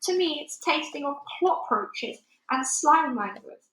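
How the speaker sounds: a hint of a big friendly giant, disgusted then earnest; lightly voiced giant. A narrator's reading. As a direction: BFG explaining his snozcumber to Sophie, lightly voiced. Giant gleeful.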